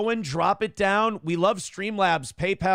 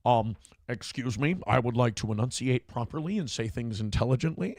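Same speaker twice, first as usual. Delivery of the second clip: white person impression; 5 semitones lower, 4 dB quieter than usual. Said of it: "does a white person impression".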